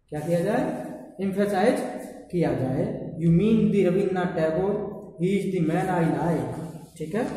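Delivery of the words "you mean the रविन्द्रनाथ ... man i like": the stretched to "dee" before Rabindranath Tagore; slow and emphatic, the as "dee"; teacher modelling an emphatic the. Shown as a demonstration. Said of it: "टीएचई का क्या pronunciation निकालते हैं, दी".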